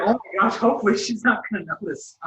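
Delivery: hyped-up worry that she'll notice; a friend imagining the boys' giddy nerves, excited; nervous excitement. Retold or imitated.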